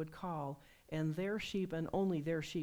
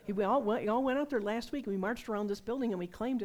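excited retelling; 5 semitones higher, 7 dB louder than usual. Retold or imitated. Retelling the man's excited reply.

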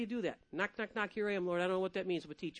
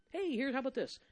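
normal talking voice

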